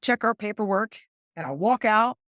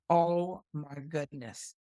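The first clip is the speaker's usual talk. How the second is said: stunned hush; 4 semitones lower, 5 dB quieter, much slower than usual. Retold or imitated. Stunned by the news of the husband.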